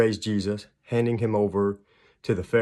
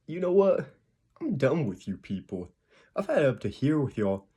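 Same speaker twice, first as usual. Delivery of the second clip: imagined exasperation; 5 semitones higher than usual. Retold or imitated. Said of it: "God could have said".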